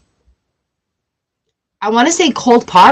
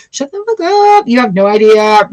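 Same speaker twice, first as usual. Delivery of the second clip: inner outburst. Retold or imitated. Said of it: "in your brain, you're like".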